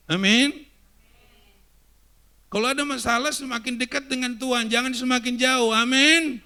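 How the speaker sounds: loud, high call for amen; full-force preaching. Acted. Preacher rallies the congregation, loud and high. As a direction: rouse the church to answer.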